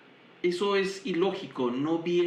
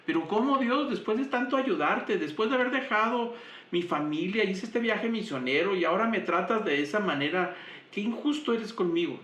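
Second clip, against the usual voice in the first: raised, aggrieved protest to God; complaining to God; 4 semitones higher than usual. Pretend. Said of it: "y hubiéramos dicho". (queja dolida a Dios, voz más aguda)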